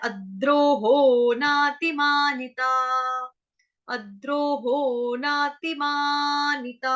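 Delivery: slow sacred chant of the verses; Sanskrit recitation. Shown as a demonstration. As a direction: intone each verse slowly. Chanting demo of the phrase.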